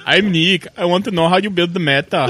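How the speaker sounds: playful mock Austrian accent. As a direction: read it as a put-on Austrian. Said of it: "Do your Austrian accent".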